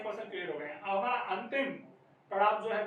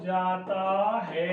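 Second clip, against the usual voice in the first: slurred run-together reading; much slower than usual. Shown as a demonstration. Teacher demonstrating a faulty, blurred reading to students. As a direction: drag the words out slowly, blurring them together. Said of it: "जैसे कि".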